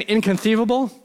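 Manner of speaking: lightly voiced little Sicilian catchphrase; Sicilian movie character. Preacher quoting the little Sicilian from the movie, mock incredulous. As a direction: mimic the little guy's incredulous outburst. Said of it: "the little guy keeps saying".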